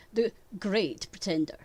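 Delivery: great leaned on with a mocking tilt; the great pretender with great dripping sarcasm; sarcastic stress. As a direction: let great drip with irony. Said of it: "Your tonal inflection on the word great".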